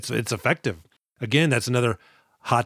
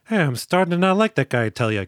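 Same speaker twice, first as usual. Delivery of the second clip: lightly voiced easygoing grumble; laid-back; 4 semitones higher than usual. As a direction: mildly put out, letting it drop at the end. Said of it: "Glasses is pretty laid back".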